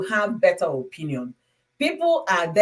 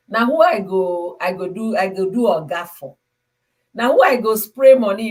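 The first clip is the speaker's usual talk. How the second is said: a lady boasting in Nigerian Pidgin; mock-brag in Pidgin about spraying money; pidgin retelling; 3 dB louder than usual. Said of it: "You know what the lady said?".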